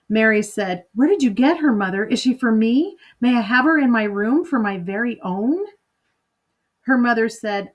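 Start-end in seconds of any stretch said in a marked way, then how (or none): 0.9-5.7 put-on lightly raised child voice, pleading; a touch of a hopeful daughter asking; eager little girl. Girl begging to keep parrot.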